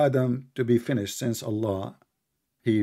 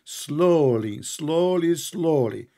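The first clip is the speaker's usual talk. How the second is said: mock drama; much slower than usual. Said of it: "you make it like a drama".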